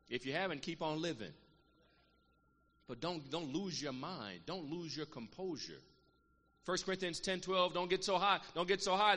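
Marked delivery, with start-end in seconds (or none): 2.9-5.8 slow, pleading. Acted. Preacher pleading with the saints not to lose their minds, slow. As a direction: stretch each word out slowly.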